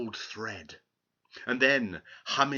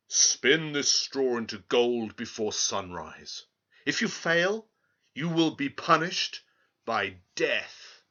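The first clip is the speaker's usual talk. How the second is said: louder, stern royal command; stern king's threat; 4 dB louder than usual. Acted. King threatens the girl, loud and stern. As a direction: threaten her with death. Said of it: "the king stated".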